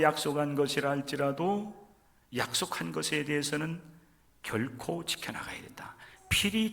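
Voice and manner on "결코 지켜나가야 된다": soft unvoiced whisper, 결코 lifted. Real, not acted. Preacher whispers to the congregation that promises must be kept. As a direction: breathe 결코 지켜나가야 된다 as an urgent secret.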